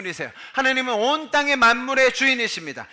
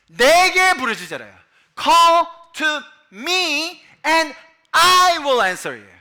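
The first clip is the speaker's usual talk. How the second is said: booming, drawn-out preacher's cry; high, loud, stretched declaration; very loud proclamation; 6 semitones higher, 8 dB louder, much slower than usual. Real, not acted. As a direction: belt the verse out slowly at full force. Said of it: "저 너무 큰 소리를 했나요?".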